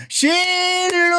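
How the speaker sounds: high, very slow drawn-out call; calling sweetly. Retold or imitated. Husband calling his wife from downstairs, long high call. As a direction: stretch the pet name up into the building. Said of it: "હું એને પ્રેમથી શીલુ કહું".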